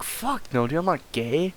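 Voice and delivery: indignant denial. Retold or imitated. Bald man refusing the offer, high and offended. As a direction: snap back, scandalized.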